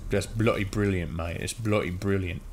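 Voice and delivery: put-on understated British accent; mock British accent. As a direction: toss it off like a Brit. Mock British slang after imitation.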